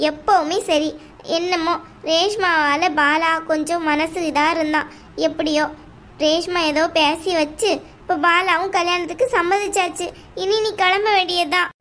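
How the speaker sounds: a domineering aunt, coldly dismissive; mother-in-law telling the bride to leave the house, scornful. Acted. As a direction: lay down the law to the unwanted daughter-in-law. Aunt's voice continues.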